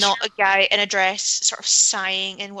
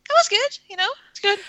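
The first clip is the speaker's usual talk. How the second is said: relieved sigh; 12 semitones higher than usual. Retold or imitated. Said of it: "get through the evening and go".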